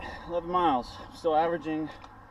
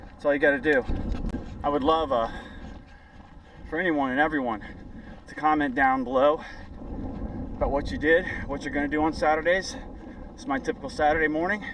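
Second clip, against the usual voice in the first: raised voice mid-run; loud while running; 4 dB louder than usual. Real, not acted. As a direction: call out to viewers while jogging. Urging viewers on the run.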